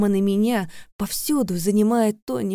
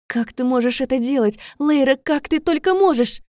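louder, higher hurt outcry; accusing; 7 semitones higher, 7 dB louder than usual. Acted. Vika accusing her trapped friend, hurt and loud. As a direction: throw the blame at her, pitch rising.

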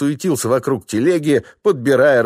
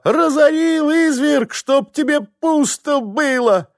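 high, slow, drawn-out shrieking curse; furious wife cursing her clumsy husband; shrill cursing; slower than usual. Acted. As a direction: wail the curse at your husband. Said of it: "заорала истошным голосом баба".

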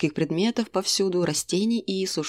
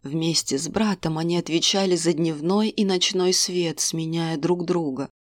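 fortune teller; 2 semitones lower than usual. Acted. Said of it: "поведала Карна".

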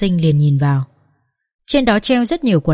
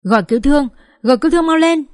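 a tearful cry for help, climbing much higher; 7 semitones higher, faster than usual. A narrator's reading. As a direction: scream for an ambulance through tears. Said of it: "bật khóc và gào lên". (vừa khóc vừa gào lên, giọng vút cao)

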